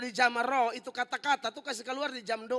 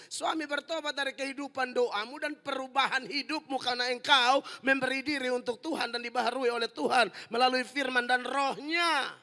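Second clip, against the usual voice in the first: ordinary talk, nothing marked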